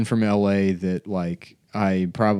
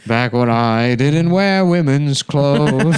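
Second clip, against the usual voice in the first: slow, high, mocking old man plea; drawn-out pleading old man; old gay man voice; 4 semitones higher, 3 dB louder, slower than usual. Voicing old gay man, comic.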